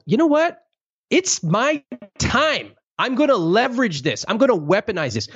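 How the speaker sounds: imitating a mom savoring her moment; guilt-tripping Indian mom. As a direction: ham up a parent about to lay on the guilt. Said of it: "Anyone who grew up with a Indian mom".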